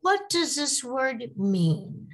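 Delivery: slow question, voice falling at the end on mean; falling question tune. Shown as a demonstration. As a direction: let the pitch drop on the last word, mean. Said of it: "my voice falls at the end of the question".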